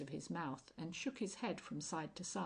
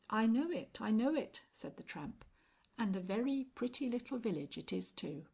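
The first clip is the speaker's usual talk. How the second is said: tramp voice; 5 semitones higher, 4 dB louder than usual. Acted. Tramp recognising the village.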